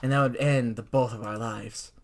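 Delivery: low, grave warning from a world-weary bird; somber, haunted mentor tone; solemn sparrow. Acted. Voices the solemn sparrow Azami.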